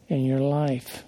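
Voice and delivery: usual speaking voice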